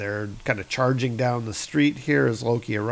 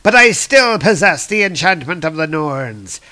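shouting; 4 semitones higher, 5 dB louder than usual. Acted. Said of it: "starts shouting out loud".

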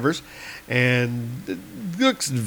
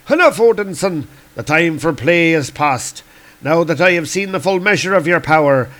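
higher, stern warrior declamation; resolute Celtic god; 4 semitones higher than usual. Acted. Lear done playing with Thor, stern and menacing. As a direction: pronounce a grand merciless threat.

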